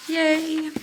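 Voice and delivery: a high, loud little cheer; excited yay. Real, not acted. Teacher cheering her right quiz answer, high and loud. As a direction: celebrate getting it right.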